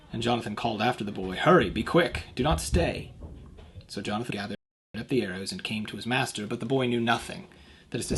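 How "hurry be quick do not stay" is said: loud, higher hurrying call; urgent call. Acted. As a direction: urge the boy on from afar. Jonathan calls after the boy.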